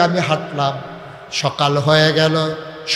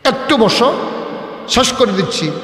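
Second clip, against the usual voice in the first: raised, hurried telling-off; exasperated scolding; 5 semitones higher, 4 dB louder, faster than usual. Real, not acted. Preacher telling the boy to sit, quick exasperated scolding. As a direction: rattle off a reproach to a restless listener.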